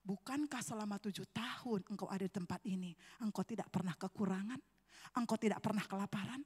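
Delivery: low, softened questioning as God. Retold or imitated. God questions the preacher about his seven years, calm and low. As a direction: gently question your servant, low and measured. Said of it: "Tuhan katakan".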